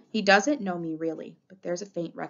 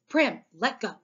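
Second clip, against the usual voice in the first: higher, harsh order; 4 semitones higher, 4 dB louder than usual. A narrator's reading. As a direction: tell a child firmly to release you. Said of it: "I say harshly".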